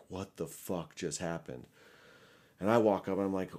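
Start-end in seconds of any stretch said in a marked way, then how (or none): 0.1-1.6 hushed, stunned question; softer voice, as if dazed by disbelief; in shock. Retold or imitated. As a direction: imitate a friend stunned into near silence. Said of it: "in shock".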